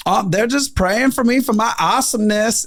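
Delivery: high, bubbly waitress voice; cheerful waitress. Retold or imitated. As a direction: toss off the joke like a sunny waitress. Waitress's joking reply voiced.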